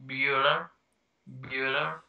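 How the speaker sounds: droning teacher calling the register; film roll-call impression. Quoting Ferris Bueller's Day Off, deadpan roll-call. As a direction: repeat the name as a bored roll-call, lifting slightly at the end. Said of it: "I love Ferris Bueller's Day Off".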